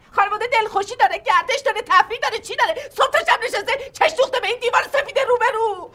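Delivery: a mocking laugh while listing what family has; wry laughing scorn; laughing mockery. Mother mocks the family outing.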